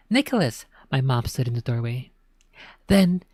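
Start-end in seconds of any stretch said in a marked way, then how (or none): 0.1-0.7 high sharp call of a name. Acted. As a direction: call out in alarm. Mom calling sharply.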